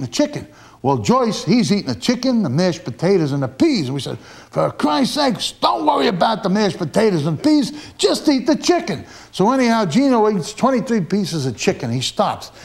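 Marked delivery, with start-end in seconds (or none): 4.2-9.0 retold yell. Teammates urging eater during contest.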